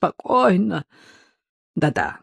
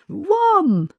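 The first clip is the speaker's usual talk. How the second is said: shouted order; 14 semitones higher than usual. A narrator's reading. Rita orders her out.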